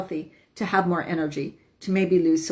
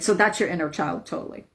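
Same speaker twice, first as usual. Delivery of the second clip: ordinary talk, nothing marked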